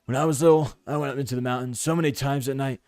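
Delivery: put-on surfer-like character voice; Kieran. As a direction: lightly play a game character recalling childhood. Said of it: "You make him sound like a surfer".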